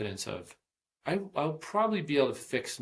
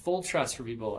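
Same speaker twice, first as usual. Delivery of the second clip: amazed; 7 semitones higher than usual. Retold or imitated. Amazed reply retold.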